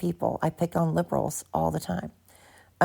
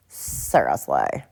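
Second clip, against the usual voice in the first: drawn-out funny voice; much slower than usual. Pretend.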